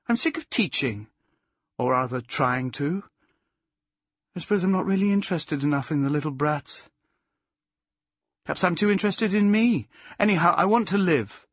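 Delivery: high outburst, gathering force; impassioned Plaxy. Acted. Plaxy confessing she is sick of teaching, increasingly emphatic. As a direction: build from confession to emphatic declaration.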